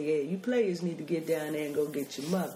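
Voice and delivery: laid-back hepcat dad; lightly voiced jive-talking father; blaxploitation-cool father. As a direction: play him cool and easy. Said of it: "seems like a black exploitation film".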